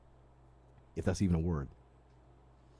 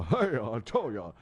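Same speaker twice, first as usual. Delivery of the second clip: Rodney Dangerfield; 2 semitones lower, slower than usual. Retold or imitated. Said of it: "be like Rodney".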